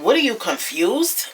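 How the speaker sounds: mock-condescending question; snippy. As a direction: mimic a snippy comeback. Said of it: "Britt got all snippy with her".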